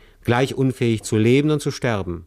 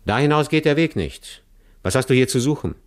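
a challenging robber's voice, pitched higher; rough robber; 5 semitones higher than usual. Acted. Robber stops the fleeing man in the woods, challenging. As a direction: bar his path and demand an answer.

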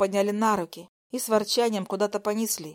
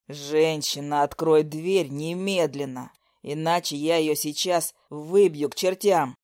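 threatening man; 6 semitones lower, slower than usual. Acted. Nikita threatens through the phone.

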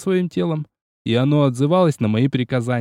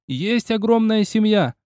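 higher, slow roar; roared verse; 7 semitones higher, slower than usual. Acted. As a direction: bellow it into his ear. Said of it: "новый рёв на ухо".

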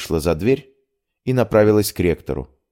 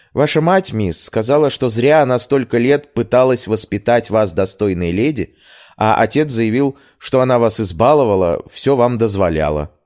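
maid reporting a family row, higher; animated, slightly raised servant's voice; indignant maid; 5 semitones higher than usual. Acted. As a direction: relay the scandal with lively agitation.

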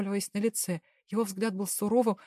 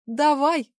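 loud, much higher yell; shouting; 6 semitones higher, 8 dB louder than usual. Acted. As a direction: scream it as a challenge. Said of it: "прокричала девушка".

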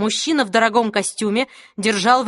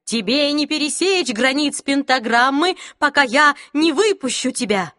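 shaky defiance; 4 semitones higher than usual. Acted. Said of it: "голос у него дрожал".

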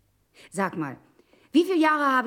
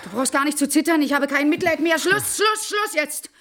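louder and higher, rising to a sharp stop; stern outburst; 4 semitones higher, 4 dB louder than usual. Acted. Wife ordering her husband out, stern outburst. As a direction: cut him off firmly.

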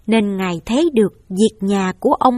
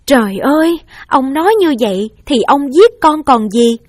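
alarmed outcry; 3 semitones higher, 5 dB louder than usual. Acted. Wife protests to husband.

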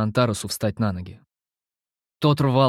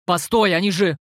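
alarmed; 7 semitones higher, 3 dB louder than usual. A narrator's reading. Hero alarmed at the figures.

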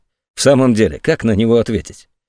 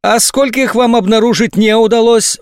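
high, silky insinuating question; 12 semitones higher, 3 dB louder than usual. A narrator's reading. General slyly probes the colonel, insinuating. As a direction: lure him in slyly. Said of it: "вкрадчивым голосом".

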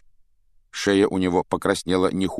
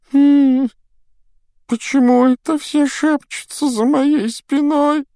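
high, slow whimpering complaint; whiny ghost girl; 7 dB louder, slower than usual. A narrator's reading. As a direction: whine like a wronged ghost girl. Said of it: "захныкала Миртл".

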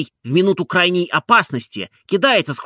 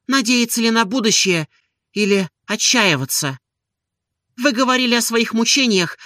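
higher, pleading woman's voice; Olga confessing; 7 semitones higher than usual. A narrator's reading. Olga confides her shame to Stolz, higher and pleading. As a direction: pour out her torment openly.

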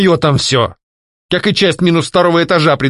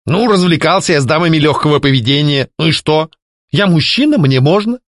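higher, smug mocking tone; 6 semitones higher than usual. A narrator's reading. Ex-husband smugly justifying his amusements, mocking. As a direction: shrug it off with a sneer. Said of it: "насмешливо улыбнулся бывший муж".

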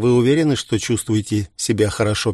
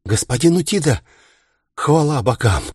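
relieved exclaim; 5 semitones higher than usual. A narrator's reading. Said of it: "воскликнула женщина".

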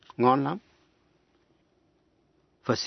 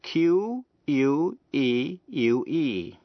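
Q U E U E spelled letter by letter, slowly; slow spelling; 3 semitones higher, much slower than usual. Shown as a demonstration. Teacher spells the answer for listeners, slow letter by letter. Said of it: "Và đánh vần thế nào?".

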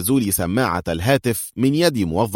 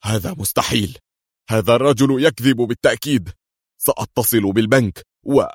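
a touch louder, seething; angry muttering; 3 semitones higher, 3 dB louder than usual. A narrator's reading. Hussein fumes to himself after the call, angry. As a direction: grumble furiously to yourself. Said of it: "يتمتم بغضب".

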